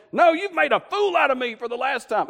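high, indignant acted outburst; exasperated mock fury; angry retort. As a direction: argue back hotly, as a man made a fool of. Balaam argues back with donkey.

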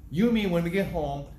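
mock stern threat through laughter; preacher laughing as he quotes the father's threat. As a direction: chuckle while voicing the father's warning. Father threatens son, teller laughing.

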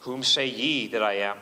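solemn scripture quote; solemn scripture read. Shown as a demonstration. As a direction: intone the old words gravely. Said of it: "the question is put to them now".

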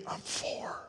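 put-on soft whispered child voice; child's whisper. Boy tells the telemarketer his age in a whisper. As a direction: whisper like a hiding little boy. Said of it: "Still whispering".

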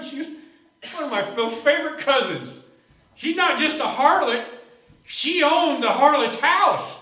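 excited, chuckling retold friend; laughing excitement. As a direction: tell it like a man cracking up at his own story. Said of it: "He starts laughing".

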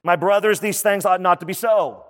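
mildly ticked-off insistence; emphatic, ticked off. Retold or imitated. James admonishing his brothers, emphatic and a little irked. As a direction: quote it as a firm, emphatic admonition. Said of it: "James makes this emphatic statement".

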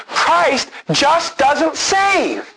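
hammed-up slow shout of a false teacher; mock proclamation. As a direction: boom it out like a false teacher at the pulpit. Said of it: "stand up on a podium and a platform and say".

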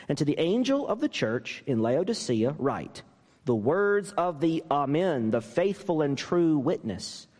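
deliberate pulpit reading, weighing each phrase; scripture reading. Acted. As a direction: read it out like holy text. Reads scripture passage aloud.

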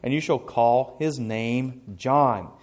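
solemn reading of the Gospel; scripture reading. Acted. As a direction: read it out like scripture in church. Reads scripture aloud.

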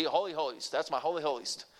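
a hint of a Southern grandpa saying "Holy holiest"; Southern accent. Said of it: "he was a Southern boy, and he talked like this".

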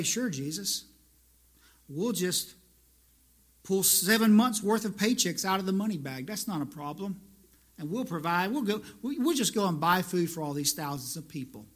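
a touch of dry sarcasm; mild sarcasm. Retold or imitated. Disciples answering Jesus with mild sarcasm. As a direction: roll the eyes at the idea. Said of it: "perhaps mild sarcasm in their question".

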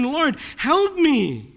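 slow, earnest plea for help; desperate plea. Acted. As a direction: draw out the plea, pleading with the Lord. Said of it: "He's intense desperation".

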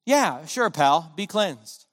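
offhand, slow mock shrug of a reply; lightly mocking careless tone; casual indifference. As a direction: toss it off like it means nothing. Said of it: "with casual indifference".

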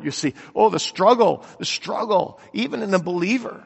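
usual speaking voice

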